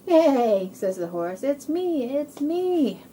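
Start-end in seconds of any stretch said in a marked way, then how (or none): 0.1-0.7 loud imitated whinny; horse neigh. Voicing the horse. 1.4-3.0 high, loud happy reveal; excited horse. Acted.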